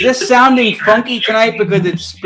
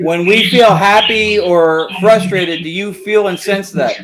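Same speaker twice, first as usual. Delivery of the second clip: slow and deliberate; slower than usual. Real, not acted. Asking spirits questions, spoken slowly.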